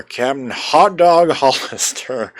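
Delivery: put-on slow, drawn-out southern accent. Player reads out the captain's name, southern accent. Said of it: "go into a southern accent when saying that".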